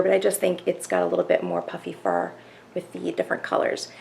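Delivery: softly voiced, keeping it down; hushed near-whisper. Real, not acted. Vlogger afraid the Furbies will wake, hushed. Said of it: "I love how I'm whispering right now".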